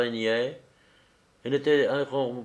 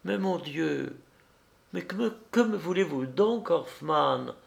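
effroi; 6 semitones higher than usual. A narrator's reading. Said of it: "avec effroi".

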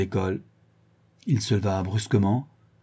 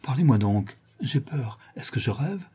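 higher-pitched, uneasy dread; frightened; 6 semitones higher than usual. Acted. Frightened onlooker pleading with Monsieur Rodolphe, fearful. Frightened witness speaks in story.

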